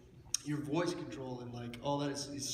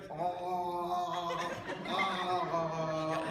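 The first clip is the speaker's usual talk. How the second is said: throat opening demo; 2 semitones higher, much slower than usual. Shown as a demonstration. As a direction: open the back of the throat and let out a loose oh. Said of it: "I'm gonna do it".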